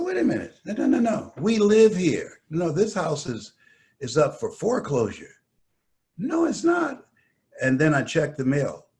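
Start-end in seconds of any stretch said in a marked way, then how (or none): 0.0-5.3 panicked protest. Retold or imitated. Panicked pleading at buyers. 6.2-7.1 shouted denial. Retold or imitated.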